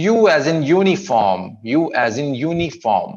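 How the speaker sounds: slow uniform with U drawn out; long first syllable. Shown as a demonstration. Teacher introducing uniform to pupils, first syllable lengthened. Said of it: "सभी में first syllable को लंबा खींचेंगे".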